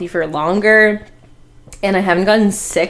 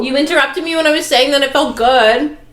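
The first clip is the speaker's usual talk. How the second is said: high indignant; 8 semitones higher than usual. Real, not acted. Heated mock argument.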